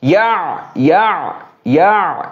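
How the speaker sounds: ইয়া with a catch from the middle of the throat; ইয়া with an ain sound. Shown as a demonstration. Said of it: "কণ্ঠনালীর মধ্যখানটা".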